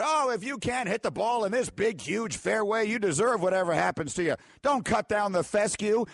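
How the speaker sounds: a half-hearted Northern Irish impression of Rory; mock Northern Irish. Host mocking Rory McIlroy in a failed Northern Irish accent. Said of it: "I can't do the Northern Irish accent".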